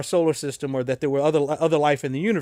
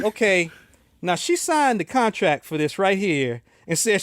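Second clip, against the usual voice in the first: mustache twirling villain; 5 semitones higher than usual. Acted. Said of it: "And then the villain says".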